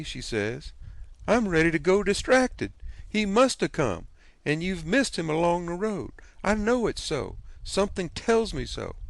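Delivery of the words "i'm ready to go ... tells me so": fretting aunt. A narrator's reading. Aunt fretting to her husband about the missing nephew, higher anxious voice. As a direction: work yourself up into a worried fluster.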